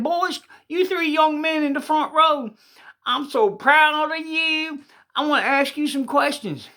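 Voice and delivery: put-on booming pastor singling out the boys; preacher voice. Preacher addressing the three boys in the front pew, booming.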